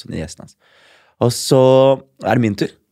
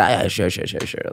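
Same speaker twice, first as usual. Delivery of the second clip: whispered; 2 semitones lower, 7 dB quieter than usual. Retold or imitated. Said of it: "og jeg bare".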